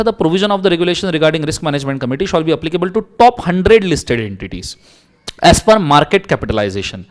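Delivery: teacher reading law aloud; slow legal read. Acted. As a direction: read the clause out slowly and deliberately. Reading statute text.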